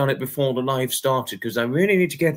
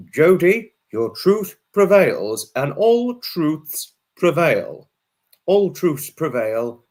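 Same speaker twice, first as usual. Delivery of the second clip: slow, louder proclamation; solemn declaration; 2 semitones higher, 4 dB louder, slower than usual. Real, not acted. Streamer to Jody in chat, slow solemn proclamation.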